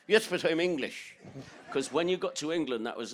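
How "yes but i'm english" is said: high, loud mock insistence; mock Irish gran. Grandson mimics gran insisting she's English, high and loud.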